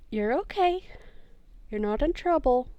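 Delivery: lightly voiced, reassuring character; gentle reassurance. Player as James comforting Glob, gentle reassurance. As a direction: reassure a scared little creature, lightly acted.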